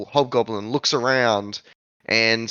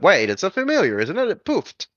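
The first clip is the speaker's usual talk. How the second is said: high squeaky creature voice; 6 semitones higher than usual. Acted. Creature voice again.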